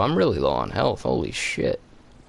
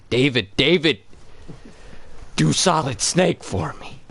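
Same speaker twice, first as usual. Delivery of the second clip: pleading fan; 5 semitones higher than usual. Retold or imitated. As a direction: beg like a starstruck fan. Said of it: "am I gonna fucking like".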